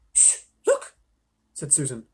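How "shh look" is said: whispered shush and look; urgent whisper to draw attention; hushed alert. A narrator's reading. Susan spots movement and hushes the others, urgent whisper.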